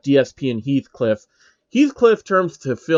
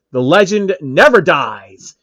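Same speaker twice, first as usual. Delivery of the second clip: slow and louder, defiant cry; defiant declaration; 6 dB louder than usual. Acted. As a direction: proclaim you can't be killed. Heathcliff refuses to die.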